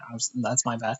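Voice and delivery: muffled, bad mic sound; inside a fishbowl. Real, not acted. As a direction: voice through a muffled connection. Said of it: "You sound like a fishbowl".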